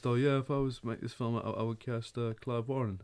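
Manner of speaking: a lightly voiced Carl Pilkington, barely changed from own voice; half-hearted Carl Pilkington; Carl Pilkington impression. Mocking Carl Pilkington to friends, lightly voiced. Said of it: "your Carl Pilkington".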